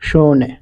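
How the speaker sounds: "শোনে" with a held first vowel; model pronunciation. Shown as a demonstration. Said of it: "দেখেন U H".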